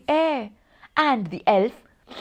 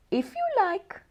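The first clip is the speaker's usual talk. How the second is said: snowman voice; 10 semitones higher, 6 dB quieter than usual. Acted. Snowman's voice, high and far.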